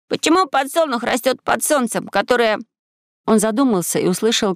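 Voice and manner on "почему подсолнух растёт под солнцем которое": put-on high, clear boy's question; ringing and distinct. A narrator's reading. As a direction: ask it ringingly, word by word. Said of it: "Звонко и отчётливо произнёс в тишине".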